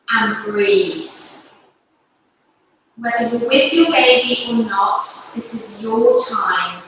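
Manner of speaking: calm, unhurried instruction with long pauses; guided yoga. Real, not acted. Yoga teacher leading parents and babies through breathing, guided yoga. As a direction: guide them gently through each breath, phrase by phrase.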